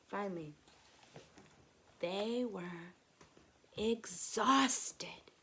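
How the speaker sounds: soft, hushed, with long pauses; calming narration. A narrator's reading. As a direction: settle the listener into stillness. Narrating exhaustion, stillness, breathing.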